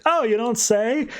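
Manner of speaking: high, slow drawn-out sarcasm; mock surprise, laid on slow; dry sarcastic quip. Red Hood's sarcastic reply.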